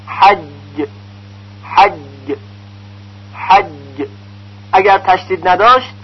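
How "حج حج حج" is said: حج with a held, firm جیم; doubled jim. Shown as a demonstration. Teacher showing the doubled جیم in حج. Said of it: "حرف جیم مشدد مثل".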